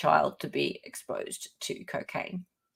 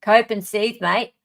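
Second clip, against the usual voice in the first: Australian demo, louder at the start; lightly put-on Australian, rising on "mate"; Australian accent; 3 semitones higher, 4 dB louder than usual. Shown as a demonstration. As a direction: demonstrate an Aussie accent for a poor imitator. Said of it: "You really need to work on your accents".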